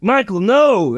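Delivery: high-pitched cry to stop; alarmed cowboy father. Acted. Cowboy father watching Michael being dragged down, high alarmed cry. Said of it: "the cowboy father's like".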